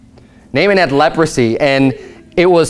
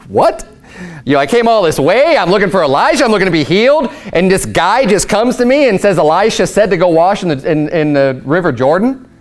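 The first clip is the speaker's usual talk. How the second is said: indignant; 2 semitones higher than usual. Retold or imitated. The snubbed captain protesting to the preacher's listeners, indignant. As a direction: protest like a snubbed important man.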